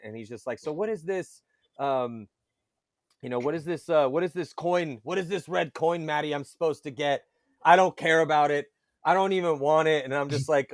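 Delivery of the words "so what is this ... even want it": higher mock Norwegian accent, complaining; a frustrated Norwegian player imitated with a higher, grumbly accent; retelling how a sulky Norwegian player refused the coin, in a mock accent. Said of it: "with the heavy, you know, s-, Norwegian accent".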